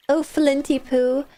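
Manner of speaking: slow, lightly voiced fortune teller; Mad Gypsy impression. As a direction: drawl it like a mystic. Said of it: "That was my Mad Gypsy impression".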